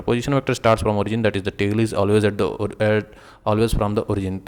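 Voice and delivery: reading the definition out slowly for notes; unhurried note-dictation voice. Acted. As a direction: spell it out word by word for students to copy.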